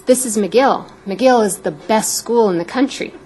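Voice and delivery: mildly excited retold exclamation. Dad calling to his young daughter at the TV, excitedly imitated. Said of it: "excitedly exclaimed".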